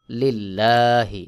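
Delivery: লিল্লাহি with a light, thin ল, drawn out slowly; slow recitation of লিল্লাহি, ল kept thin; thin lam. Shown as a demonstration. Teacher shows students the thin ল in লিল্লাহি, slow. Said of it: "আমি যে লিল্লাহি বললাম, এটাকেই বলা হয় বারিক".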